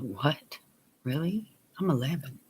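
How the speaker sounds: lightly acted, taken-aback protest; retold disbelief. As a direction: question it like a baffled child, understated. Child's disbelief at mother's order.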